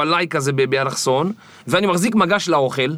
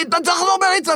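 much higher, shouted order; imitated yelling commander; 13 semitones higher, faster than usual. Commander yelling at recruit to run back, mock shout. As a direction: bark it like a drill commander. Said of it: "אתה מתחיל לצעוק".

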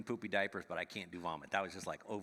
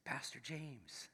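homeless man greeting; 5 semitones higher, 7 dB quieter, much slower than usual. Retold or imitated. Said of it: "he turns to me and says".

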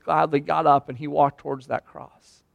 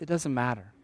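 hushed lying enemy; 4 semitones lower, 13 dB quieter than usual. Retold or imitated. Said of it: "he's gonna whisper lies like this".

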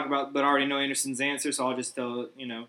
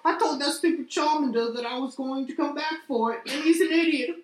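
high-pitched mock Australian; bad Australian accent; 10 semitones higher than usual. Co-host joining in on the trainer impression, bad Australian accent. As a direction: play the callous trainer in hammed-up Australian. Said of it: "some shitty Australian accent".

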